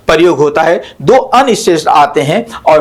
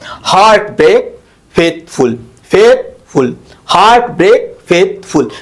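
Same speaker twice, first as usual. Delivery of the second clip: "हार्ट ब्रेक" and "फेथफुल" in even, separated beats; weight both halves of "फेथफुल", फेथ and फुल; stress on both syllables. Shown as a demonstration. Teacher demonstrating spondees, both halves stressed. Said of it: "ये दोनों पे जोर दिया जाता है".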